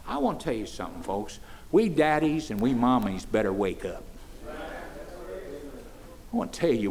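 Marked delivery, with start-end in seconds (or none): 4.5-6.9 slow solemn appeal. Real, not acted. Slowed appeal to parents.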